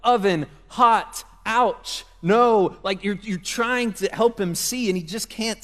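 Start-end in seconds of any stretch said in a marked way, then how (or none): 0.0-2.8 put-on louder, spaced words for a toddler; simple firm commands. Parent warning toddler away from oven, firm and louder. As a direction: bark short warnings a toddler can grasp. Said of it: "trying so hard to communicate to your kid".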